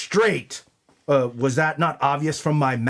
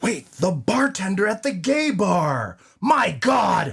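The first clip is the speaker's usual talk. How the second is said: shocked; 6 semitones higher than usual. Acted. Sudden realization.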